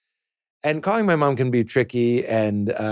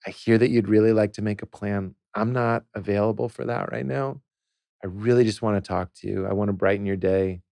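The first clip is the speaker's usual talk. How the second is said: calm soothing voice; 4 dB quieter than usual. Shown as a demonstration. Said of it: "like when you talk to a child having a tantrum".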